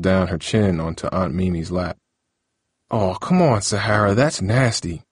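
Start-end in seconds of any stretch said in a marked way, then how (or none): 2.9-5.0 put-on mild disgusted whine at the baby; a touch of grossed-out complaint; big brother lightly griping at the drooling niece; complaining. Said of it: "Lionel complained".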